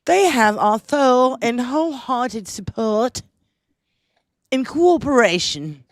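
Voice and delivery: mock-royal English accent read. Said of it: "It's a shitty English accent".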